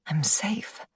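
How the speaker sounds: soft unvoiced whisper to calm herself. A narrator's reading. Brooke reassures herself in a soft whisper.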